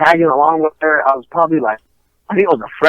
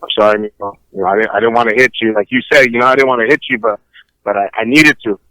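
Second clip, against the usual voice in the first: meek dad apology; 7 semitones lower, faster than usual. Retold or imitated.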